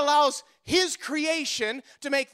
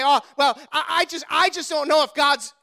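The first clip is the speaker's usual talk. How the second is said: a hint of a hesitant grumble, a bit louder; mock doubting believer; 2 semitones higher, 5 dB louder than usual. Preacher mimicking his doubting people, light mock hesitation. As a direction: mimic the wavering churchgoer. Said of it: "his people sit and say".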